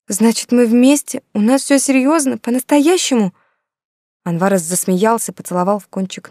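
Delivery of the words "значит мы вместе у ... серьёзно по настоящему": higher and louder, eager, hopeful questions; barely daring to believe it, rising hope. Acted. Yulka asks Anvar, hoping he means it, eagerly. Joyful disbelief at reunion.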